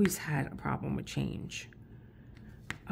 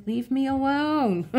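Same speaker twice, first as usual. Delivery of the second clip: laughing, higher, drawn-out protest; laughing plea; 9 semitones higher, 6 dB louder, slower than usual. Retold or imitated. She refuses her brain's cake offers, laughing and pleading. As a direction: beg off while laughing. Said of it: "I'm like".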